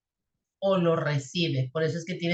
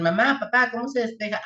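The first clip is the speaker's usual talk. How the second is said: imitating a kid asking; 2 semitones higher than usual. Teen asking parents how to solve it, lightly mimicked. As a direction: ask like a teenager stuck on homework. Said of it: "cuando sus hijos ... les digan".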